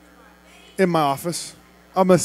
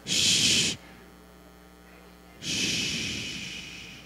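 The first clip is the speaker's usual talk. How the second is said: unvoiced shush; hushing; 16 dB quieter than usual. Real, not acted. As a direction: hush the crowd. Hushing the crowd.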